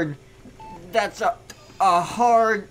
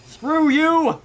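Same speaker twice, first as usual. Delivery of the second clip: indignant yell; 9 semitones higher, 4 dB louder than usual. Real, not acted. Reacting to rude hand sign.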